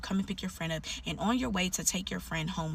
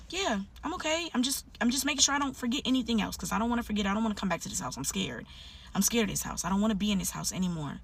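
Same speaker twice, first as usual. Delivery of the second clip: scared friend voiced; 3 semitones higher than usual. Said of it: "frightened friend on phone".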